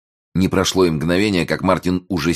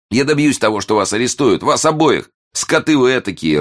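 high, loud, tearful-style threats; wailing outrage; 8 semitones higher, 4 dB louder than usual. A narrator's reading. Sobbing reporter threatens both men with arrest, wailing outrage. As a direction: cry out in helpless fury, voice pitched way up. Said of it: "рыдала заблудшая душа".

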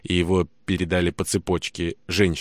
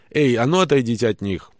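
shouting; 5 semitones higher, 4 dB louder than usual. Acted. Soldier shouts at women.

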